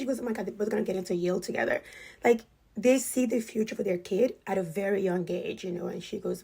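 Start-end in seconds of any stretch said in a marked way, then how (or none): 0.2-1.8 joking. Retold or imitated. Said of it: "she's joking".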